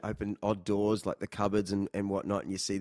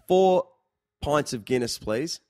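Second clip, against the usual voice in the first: bar order; 3 semitones higher, 5 dB louder, slower than usual. Retold or imitated. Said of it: "go to the bar and say".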